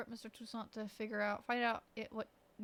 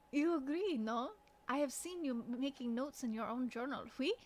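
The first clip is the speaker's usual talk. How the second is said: put-on French character voice; lightly acted French accent. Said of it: "Should I do an accent for each of these characters".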